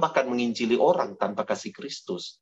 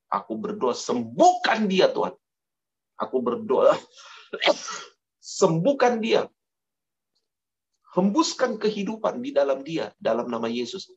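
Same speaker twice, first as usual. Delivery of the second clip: bold healing prayer. Acted. Preacher acts out bold healing prayer.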